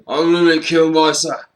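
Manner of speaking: a loud put-on rock-legend growl at heaven's gates; hammed-up rock-singer toast. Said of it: "you say".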